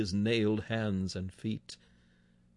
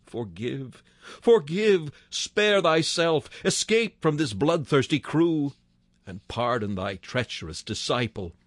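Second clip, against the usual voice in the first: weeping plea; 2 semitones higher than usual. Acted. Preacher voicing a weeping Judas begging pardon, mild sob. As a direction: beg forgiveness as if sobbing. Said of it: "weeping out his very soul would have cried".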